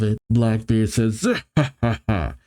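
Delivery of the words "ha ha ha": hammed-up character chuckle; mock villain laugh read from a comic; acted villain laugh. Blackbeard's laugh read aloud.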